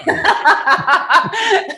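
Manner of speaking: bursting into a high, loud laugh; a big amused laugh; real laugh. Real, not acted. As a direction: laugh out loud at your own story. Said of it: "I love what you define as funny".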